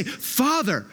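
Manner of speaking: high, confident call to a father; intimate, confident prayer opening; bold, confident address. Retold or imitated. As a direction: say it as a sure, falling address. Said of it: "boldness and confidence that you could come and say".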